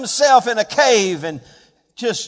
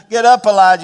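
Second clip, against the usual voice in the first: rousing angel's call; 8 dB louder, faster than usual. Acted. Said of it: "If I were the angel, this might be what I would say".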